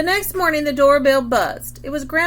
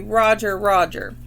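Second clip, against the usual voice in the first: parrot squawk; 3 dB louder than usual. Shown as a demonstration. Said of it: "So you're gonna say".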